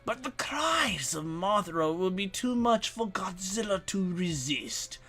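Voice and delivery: lightly voiced menacing villain; cheap villain voice. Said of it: "I'm gonna try and do a cheap villain voice".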